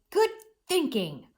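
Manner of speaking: bright joyful exclamation. Shown as a demonstration. Teacher models reading with joy, excited. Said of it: "with some, you know, joy in my voice".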